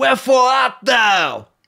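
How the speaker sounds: put-on Brooklyn American accent, very high pitch. Wondering how an old playwright would sound today, a speaker tries a brooklyn american accent. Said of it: "is that your American accent?".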